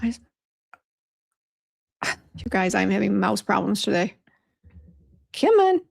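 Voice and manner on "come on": high, pleading come on; a frustrated high-pitched appeal to the computer; exasperated plea. Real, not acted. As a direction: beg the stuck mouse, pitched way up. Mouse stops working.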